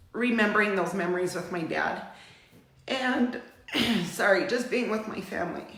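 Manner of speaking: real choked-up remembrance, halting; getting emotional. Real, not acted. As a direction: pause and clear the throat, fighting back emotion. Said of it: "I'm sorry I'm getting emotional".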